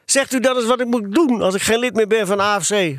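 put-on high-pitched, plaintive boy's plea; upset, whining appeal; half crying. A narrator's reading. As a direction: ask it close to tears. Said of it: "vroeg hij half huilend".

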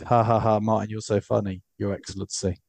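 a hint of a grovelling promoter; fawning reply. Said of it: "he would have replied to that tweet with".

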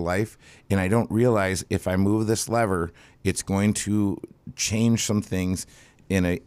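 hoarse smoker's rasp; raspy voice. Real, not acted. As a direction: talk through a raspy throat. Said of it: "I haven't smoked to get the smoker's voice".

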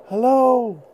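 high shouted greeting; loud hello. Acted. Boy calling out a startled hello.

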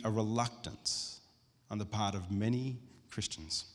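slow, measured reading from a book; reading aloud. Real, not acted. Preacher reading a book passage to the church, slow and deliberate. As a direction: read it out deliberately, phrase by phrase.

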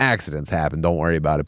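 low, easygoing reassurance; reassuring. Acted. Lenient reply to small shop.

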